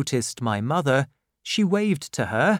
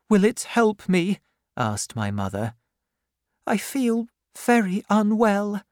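put-on high, pleading young woman's voice; a frightened girl near tears; tearful young widow; 8 semitones higher than usual. The widow explains herself to the aunt, high and pleading.

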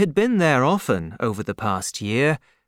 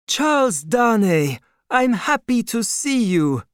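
put-on higher-pitched, kindly old father; old doctor's voice; 10 semitones higher, 3 dB louder than usual. A narrator's reading. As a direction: raise the voice for the aging doctor. Doctor greets Darnay.

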